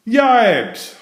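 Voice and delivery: high, loud yelp of shock; sudden yelp of fright; startled holler. A narrator's reading. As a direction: jump back and yelp it out. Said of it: "hollered Amelia Bedelia as she jumped back in shock".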